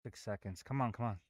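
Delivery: tense, breath held; hushed, barely breathing; holding breath. Real, not acted. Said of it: "I'm holding my breath right now".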